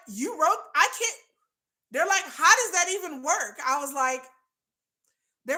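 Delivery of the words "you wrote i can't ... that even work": high, giggly mock amazement; amused disbelief. Readers marvelling at her romantic writing, high and giggly. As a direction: squeal it like a baffled fan. Quoting baffled fans, laughing.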